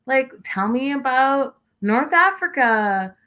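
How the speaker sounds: high slow mock-sweet questioning; a hint of a bubbly girl asking questions; mock curious girl. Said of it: "Tiffany girl who was like".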